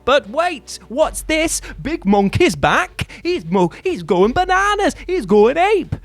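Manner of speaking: loud, high mock-alarmed shouting; hammed-up panic. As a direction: build to a frantic, over-the-top yell. Acts out shock at boss's return.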